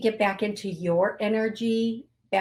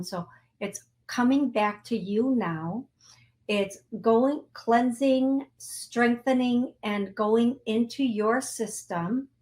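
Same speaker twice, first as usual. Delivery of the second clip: guided healing. Acted. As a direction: draw the listeners' energy back to them. Leads a healing visualization.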